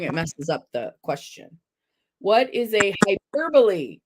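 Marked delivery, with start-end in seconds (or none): 2.2-4.0 hyperbole as "hy-PER-buh-lee"; four syllables in hyperbole, stress on PER; correct HYPERBOLE. Real, not acted. Host asking it properly, hyperbole as "hy-PER-buh-lee". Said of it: "Once I said the question right".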